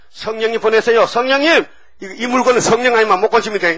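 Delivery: hammed-up urgent appeal, quickening at the end; pleading Jesus. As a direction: call out loudly for help from above. Acts out Jesus pleading for Spirit.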